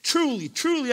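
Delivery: emphatic, separately stressed "Truly, truly"; emphasis on TRULY. Shown as a demonstration. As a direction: hit both words of "Truly, truly" for big emphasis. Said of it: "big time emphasis on what's being said".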